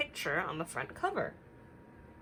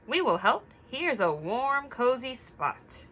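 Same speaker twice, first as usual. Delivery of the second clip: higher, bright helpful hare voice; eager hare; 6 semitones higher, 5 dB louder than usual. Acted. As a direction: offer help cheerfully as Hare. Hare offering help.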